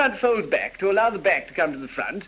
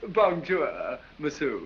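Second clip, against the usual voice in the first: mock French greeting; slower than usual. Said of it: "as the French say".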